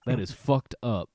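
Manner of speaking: loud, mock-indignant declaration; hammed-up shocked progressive; mock outrage. Playing a shocked progressive to friends, mock outrage.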